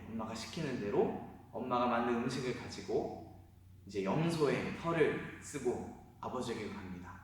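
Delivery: ordinary delivery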